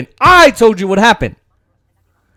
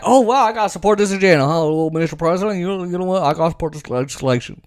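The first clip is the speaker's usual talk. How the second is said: fast, softer mocking impression; mock senator's way of talking; 6 dB quieter, faster than usual. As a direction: rattle it off quickly, mocking his fake agreement. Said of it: "that's how he says it".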